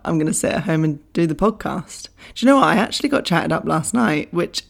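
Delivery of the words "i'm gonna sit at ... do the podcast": whisper. Acted. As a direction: whisper the correction like a confession. Whispered correction after joke.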